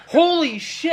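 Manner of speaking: high, loud exclamation; mock alarmed shout. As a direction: cry out as an alarmed passenger. Acted passenger alarmed at remote driver.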